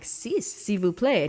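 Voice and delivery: slow, halting beginner's French; drawn-out French with an English-speaker accent; terrible French accent. Retold or imitated. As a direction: order tickets in labored learner's French. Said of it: "my French was not sufficient".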